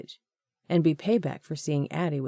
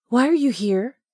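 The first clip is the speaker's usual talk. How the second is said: sharp, louder, higher demand; irritated; 8 semitones higher, 6 dB louder than usual. Acted. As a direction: snap the question at him. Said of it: "bordered on irritation".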